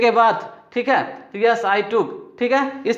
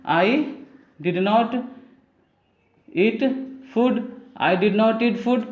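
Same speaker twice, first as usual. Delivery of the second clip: slow dictation; 4 dB quieter, much slower than usual. Shown as a demonstration. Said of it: "तो क्या हो जाएगा".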